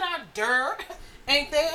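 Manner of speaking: slow mock accent, laughing; teasing copy of a bad northern accent; imitating his accent. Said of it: "Just like you said".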